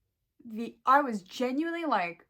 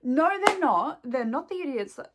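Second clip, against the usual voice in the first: aggressive; 6 dB louder than usual. Real, not acted. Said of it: "I'm getting a bit fucking aggressive".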